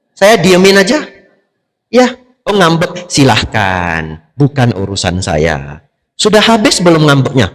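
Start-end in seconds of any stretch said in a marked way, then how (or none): 1.9-7.5 unbothered dismissal. Pretend. Mocking the sulker, unbothered. (acuh tak acuh, pelan dan santai)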